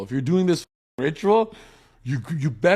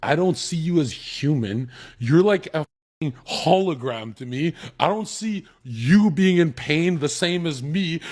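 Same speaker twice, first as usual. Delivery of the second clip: blunt translation; 3 semitones higher than usual. Retold or imitated. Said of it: "What they're literally saying is".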